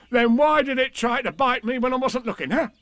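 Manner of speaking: very high, indignant tiger voice; excitable storybook tiger; Tigger. A narrator's reading. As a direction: demand it high, ending on a huh. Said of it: "said Tigger".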